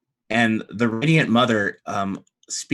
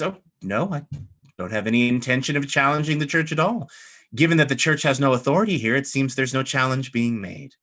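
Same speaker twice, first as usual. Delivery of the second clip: quick, higher-pitched dismissal; cool rebuttal; 3 semitones higher, 3 dB louder than usual. Acted. Abbess denies the church's authority, briskly dismissive. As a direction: rattle off the put-down briskly.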